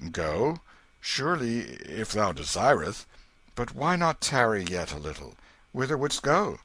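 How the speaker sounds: put-on king puzzled by the boy's request. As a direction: ask kindly why he leaves. King answers Tom.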